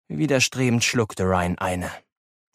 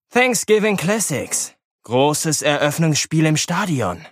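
smug; 3 semitones higher, slower than usual. Acted. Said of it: "rief Elbers höchst selbstzufrieden".

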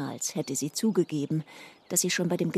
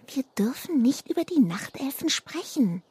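scared whisper; 7 semitones higher than usual. Acted. Lilana warning Kiesel in a fearful whisper. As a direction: whisper it as if they might hear. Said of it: "flüsterte sie dann".

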